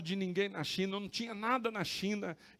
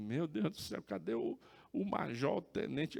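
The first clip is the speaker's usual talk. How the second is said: worried searching; 3 semitones lower, 5 dB quieter than usual. Retold or imitated. Worried search for the missing officer.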